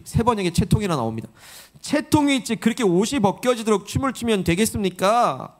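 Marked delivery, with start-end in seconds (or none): 1.8-5.5 mock reproach. Michal rebukes David for dancing, mock reproach. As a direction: chide the king, pitched up at first. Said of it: "라고 책망을 해요".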